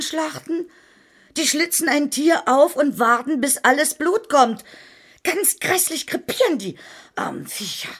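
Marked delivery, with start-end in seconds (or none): 5.2-7.9 hushed, relishing whisper; gruesome whisper. Acted. Gruesome slaughter detail.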